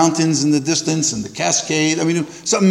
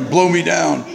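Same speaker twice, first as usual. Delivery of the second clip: Popeye. Retold or imitated. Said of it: "I sound like Popeye".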